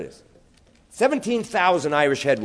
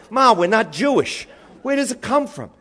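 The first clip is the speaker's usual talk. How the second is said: put-on pestering kid; 8 semitones higher, 5 dB louder than usual.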